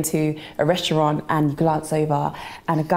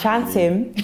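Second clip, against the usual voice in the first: African accent; 4 semitones higher than usual. Shown as a demonstration. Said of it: "you gotta say it with an African accent".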